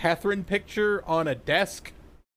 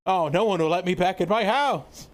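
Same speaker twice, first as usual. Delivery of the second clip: unhinged villain; 3 semitones higher than usual. Retold or imitated. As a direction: play a manic, overacting vampire. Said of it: "the kinda unhinged voice".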